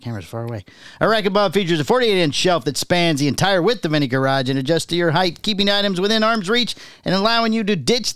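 upbeat commercial read. Acted. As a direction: read it like a radio spot. Reads a product ad.

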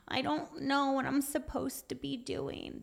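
small, high mock whine; whiny. Speaker mimics people who lost their purpose, whiny. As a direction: complain softly in a put-on whiny voice. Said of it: "then we become whiny".

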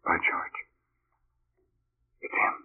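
hushed, breathless whisper; stunned whisper; awed whisper. Acted. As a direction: breathe it out in disbelief. Shocked at ghost appearing.

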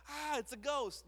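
high, hammed-up fright; mock panicked disciples. Disciples seeing Jesus on water, mock frightened. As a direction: yelp it like scared disciples.

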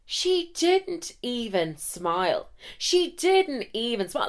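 high, drawn-out disbelief; incredulous. Real, not acted. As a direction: stretch it out high, aghast at getting no reaction. Incredulous at doctor's lack of reaction.

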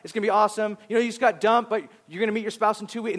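mock-upbeat prophecy over someone grieving; mock cheerful promise. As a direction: cheer them on like a hype man. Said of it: "someone singing over us".

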